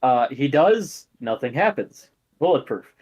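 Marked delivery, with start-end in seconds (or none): none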